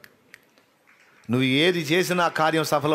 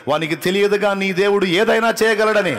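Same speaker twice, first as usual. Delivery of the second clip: loud, high ringing declaration; loud climax; 7 semitones higher, 8 dB louder than usual. Acted. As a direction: proclaim God's might at full force. Climax of repetition.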